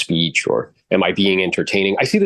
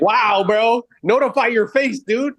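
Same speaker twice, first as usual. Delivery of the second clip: much higher, incredulous mocking voice; mock exasperation; 11 semitones higher than usual. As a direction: tease him like a stunned buddy. Mocking reaction to flat trainee.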